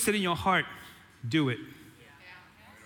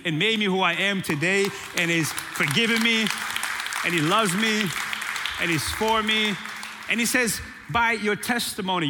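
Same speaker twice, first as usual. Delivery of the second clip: full-force preaching. Acted. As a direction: preach it out to the whole church, building.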